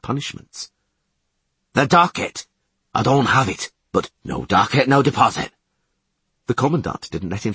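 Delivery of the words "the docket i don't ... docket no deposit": loud, insistent protest; exasperated shout. Acted. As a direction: insist hotly. Geralt angry.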